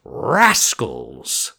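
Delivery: a mock outraged fox. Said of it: "said the fox".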